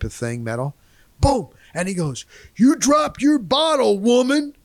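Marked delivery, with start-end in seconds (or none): 2.6-4.6 high-pitched imitation of a loudmouthed redneck husband; mock redneck bellow, pitched way up; loud redneck. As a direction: holler at your wife like a loud redneck. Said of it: "That's exactly how he talked".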